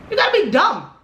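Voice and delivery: real indignant jab; exasperated insult. Real, not acted. Angry rant at absent friend.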